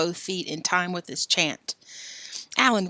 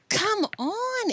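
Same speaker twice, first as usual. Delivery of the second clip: yelling. Acted. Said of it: "Ellen yelled at Joe".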